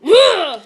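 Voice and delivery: loud, high, explosive frustrated grunt; angry grunt. Retold or imitated. Coworker holding back a punch, loud angry grunt. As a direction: let out a furious held-back grunt. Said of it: "And she just went".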